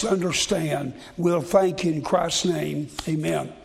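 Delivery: earnest prayer, pitched a little under preaching voice. Real, not acted. Preacher asks God to help him explain, praying. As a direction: pray steadily, settling down on the Amen.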